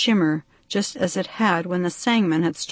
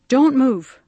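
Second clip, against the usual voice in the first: high, loud sharp warning; 6 semitones higher, 6 dB louder than usual. A narrator's reading. Bee man warns the captive girls, loud and stern. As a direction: snap a stern order to freeze. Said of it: "he warned them".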